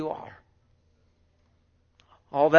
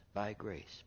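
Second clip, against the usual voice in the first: whisper; 5 semitones lower, 11 dB quieter than usual. Real, not acted. Repeating phrase, fading to whisper.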